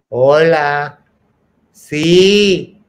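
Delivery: lightly voiced sugary phone greeting; sweet phone voice. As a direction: sound innocent on the phone. Friend answering phone, acting sober.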